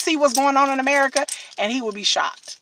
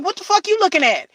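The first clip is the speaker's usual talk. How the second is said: husband confronting; 7 semitones higher, 4 dB louder than usual. Retold or imitated. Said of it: "he'd be like".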